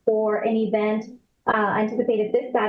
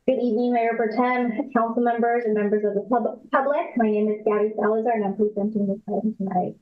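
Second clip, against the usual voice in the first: corrupted glitchy audio; faster than usual. Real, not acted. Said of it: "your audio is cutting out".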